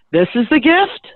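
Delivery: retold incredulity, pitch climbing to the end; mock disbelief. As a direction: question it as if you can't believe it. Acted disbelief at the gift.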